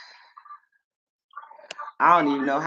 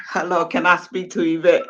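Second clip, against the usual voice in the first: proper phone voice; 4 semitones higher than usual. Retold or imitated. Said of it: "this is not Yvette saying that".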